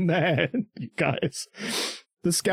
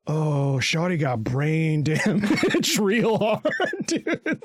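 slow laughing dude voice; much slower than usual. Retold or imitated. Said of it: "Bertholdt is like".

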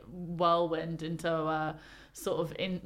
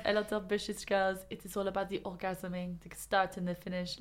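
lightly put-on French accent; a hint of a French lover voice. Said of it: "I'm not gonna do it in the French accent".

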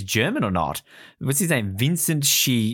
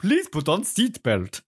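slow, higher mock announcer voice; car narration woman; 5 semitones higher, slower than usual. Imitating the car's narration, slow higher female voice. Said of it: "the narration by this woman".

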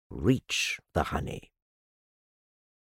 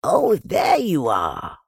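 slow, raised, louder call; Pooh calling down; 5 semitones higher, 5 dB louder, slower than usual. A narrator's reading. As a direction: call down in greeting, drawing it out. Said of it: "called down Winnie the Pooh".

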